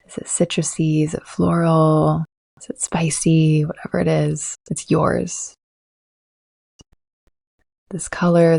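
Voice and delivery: calm, unhurried meditation voice with long pauses; guided meditation. Acted. Coach leads listeners to ground and settle, guided meditation. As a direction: guide the listener gently, leaving space to breathe.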